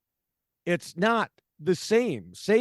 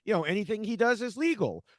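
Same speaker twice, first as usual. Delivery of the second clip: higher-pitched mock Twitter poster; imitating online commenters; 5 semitones higher than usual. Host quoting people on Twitter about Biden's powers, mock naive. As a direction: lightly mimic people with a too-easy fix. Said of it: "who were like".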